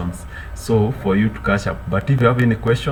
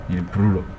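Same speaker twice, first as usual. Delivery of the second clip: normal talking voice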